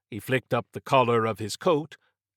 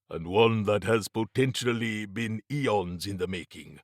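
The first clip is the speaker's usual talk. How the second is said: measured, formal warning; lightly voiced Mabati, foreboding. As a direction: lightly play a grave adviser explaining the threat.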